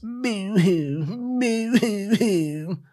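hammed-up boo-hoo sobbing, high and slow; mock crying. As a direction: Kristen crying after Norman walks away, hammed up. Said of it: "Kristen begins crying".

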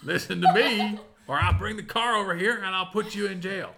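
put-on old prospector. GM voices Deputy Bob.

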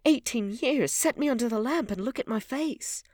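high, loud exultant command; triumphant. A narrator's reading. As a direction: call it out in triumph, voice pitched high. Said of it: "a touch of triumph in his voice".

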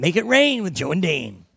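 "rain" stretched out in a rise and fall; announcer-style show title. Shown as a demonstration. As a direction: draw out "rain" like a radio tagline. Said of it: "People gotta say it like that".

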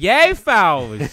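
loud, high Philly tough-guy yell; Philly accent. Retold or imitated. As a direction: bark it like a South Philly fan. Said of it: "De Niro being like".

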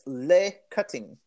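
posh Surrey accent on the phone; British phone voice, Surrey style; home counties accent. Shown as a demonstration. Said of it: "my British phone voice, Surrey voice says".

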